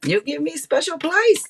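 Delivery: put-on high-pitched caricature Asian accent; mock Asian accent. Joking about her Asian side to viewers, mock Asian accent. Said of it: "It must be the Asian in me".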